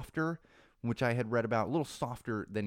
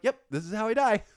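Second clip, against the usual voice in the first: mock doom; 10 semitones higher, 5 dB louder than usual. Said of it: "I'd be like".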